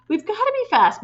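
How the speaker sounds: high urgent cry. A narrator's reading. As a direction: push her to hurry. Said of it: "Matilda cried".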